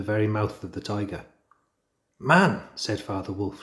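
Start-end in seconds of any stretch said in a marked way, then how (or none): 2.2-2.6 snarled. Acted. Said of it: "showing all of his white teeth".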